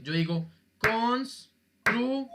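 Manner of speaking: constru- drawn out slowly, cut after the syllable; syllable split. Shown as a demonstration. Teacher splitting constru- syllable by syllable. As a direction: stretch out constru- and stop short. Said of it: "¿qué digo yo?".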